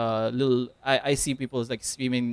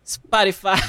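loud; 6 semitones higher, 4 dB louder than usual. Pretend. Loud second take of Spotify.

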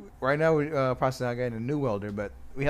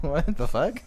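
high laughing what the fuck; laughing at coworkers smoking weed; laughing disbelief; 10 semitones higher, slower than usual. Retold or imitated. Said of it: "And I'm like".

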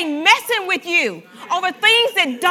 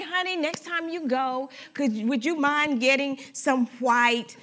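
gentle request; 4 dB quieter than usual. Shown as a demonstration. Spouse asking for white toilet paper, softly and sweetly. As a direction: ask kindly, like a loving spouse. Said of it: "Why don't you just say".

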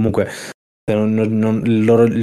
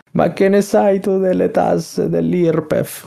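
slow, higher disguised voice; anonymous insider with altered voice; 7 semitones higher, much slower than usual. Pretend. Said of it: "che con la voce alterata".

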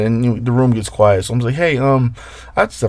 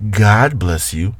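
mocking the friend; slower than usual. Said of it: "one of the guys in the room".

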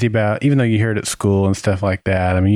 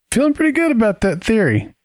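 high, sing-song smugness; gloat, pitched way up; smug; 12 semitones higher than usual. Acted. Gloating over his theory.

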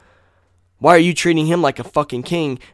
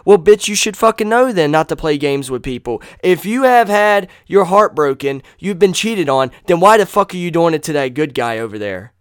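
angry rant; 5 semitones higher, 4 dB louder than usual. Real, not acted. Angry rant at cheating women.

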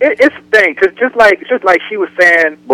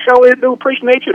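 slang greeting; 8 semitones higher than usual. Shown as a demonstration. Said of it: "I say".

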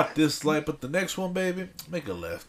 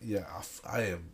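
high and giggly; stoned and laughing; stoner; 6 semitones lower than usual. Real, not acted. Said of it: "pretty high right now".

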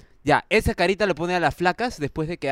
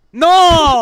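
disbelieving no; 9 semitones higher, 11 dB louder than usual. Real, not acted. Disbelieving outcry at donor's joke.

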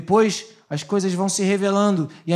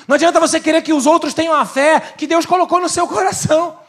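high, loud, fast preaching; preaching at full force; 8 semitones higher, 6 dB louder, faster than usual. Acted. Pastor exhorting the congregation, forceful preaching. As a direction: hammer it home.

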